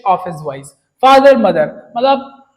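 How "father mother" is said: louder cry of father, mother; shrieking for parents. Retold or imitated. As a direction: call out like a lost child in a crowd. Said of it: "shrieked at the highest pitch". (भीड़ में खोए बच्चे की ऊंची पुकार)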